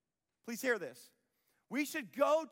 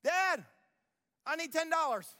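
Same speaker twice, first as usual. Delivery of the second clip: put-on higher, louder whiny teenager begging; teen asking dad; 7 semitones higher, 4 dB louder than usual. Mimicking a teen asking dad for money, whiny and high. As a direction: plead like a kid wanting cash. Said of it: "You ever seen this before with your kids?".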